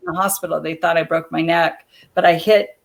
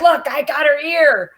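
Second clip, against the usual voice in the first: snarling heel; 8 semitones higher than usual. Retold or imitated. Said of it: "she's going around snarling".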